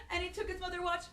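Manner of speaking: storyteller's playful alarm; mock outrage. A narrator's reading. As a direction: ham up the shock for the kids. Telling naughty toddler mischief.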